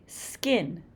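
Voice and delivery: skin said slowly, the k unaspirated; soft k in skin. Shown as a demonstration. Teacher models skin for students, slow and soft k. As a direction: draw out skin, no puff on the k. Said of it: "Notice that the k is not as strong".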